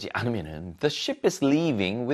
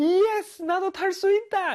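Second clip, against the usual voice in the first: very high, joyful, whooping yell of delight. Explaining the English word holler, demonstrating a joyful shout. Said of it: "이렇게 막 소리를 지르는 것이죠".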